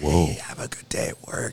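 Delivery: soft, barely voiced whisper. Retelling having no voice, greeting a girlfriend: imitating a whisper. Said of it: "I'd have to whisper to my girlfriend".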